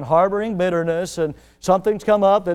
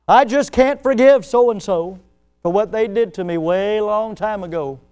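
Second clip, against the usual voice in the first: stubborn grudge-holder; 3 semitones higher, 5 dB louder than usual. Retold or imitated. Churchgoer who won't forgive, stubborn and loud. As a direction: spell out the refusal like a bitter churchgoer.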